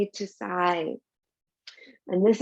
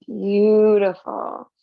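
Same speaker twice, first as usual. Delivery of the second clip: warm praise; 6 dB louder, much slower than usual. Real, not acted.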